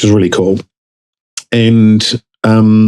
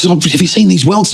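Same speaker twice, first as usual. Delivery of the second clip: high-pitched, frantic pleading; panicked; 9 semitones higher than usual. Retold or imitated. Husband panicking to his wife over welts, high and frantic. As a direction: squeak it out like you're sure you're dying.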